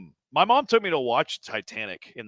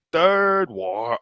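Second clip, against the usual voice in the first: higher, louder attempt at the call; failed announcer call; 7 semitones higher, 5 dB louder than usual. Trying to copy the announcer's call, higher and louder. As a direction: push it like a hype call and miss. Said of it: "inflection is completely off".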